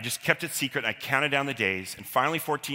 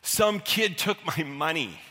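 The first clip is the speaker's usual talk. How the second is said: choked out; 5 semitones higher, slower than usual. Retold or imitated. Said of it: "The only words I can choke out".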